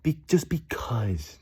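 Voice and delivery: high, breathy mock parent voice; exasperated parent whispering no; fed-up parent. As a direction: brush the kid off wearily. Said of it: "they're probably just like".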